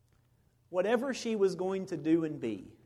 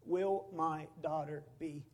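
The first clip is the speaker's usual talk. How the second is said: unspoken fear; 5 dB quieter, slower than usual. Real, not acted. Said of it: "I couldn't say it".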